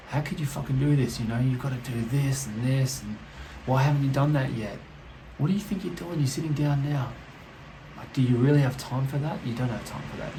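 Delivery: mock nagging inner critic. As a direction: badger yourself like a restless mind. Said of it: "the mind is just gonna be like".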